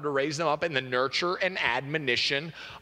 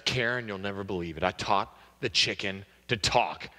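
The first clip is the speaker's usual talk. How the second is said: husband voice; 8 semitones lower than usual. Acted.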